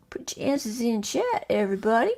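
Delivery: soft, whispery repeat; hushed. Pretend. Host repeats the instruction to players, hushed. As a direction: say it under your breath to the room.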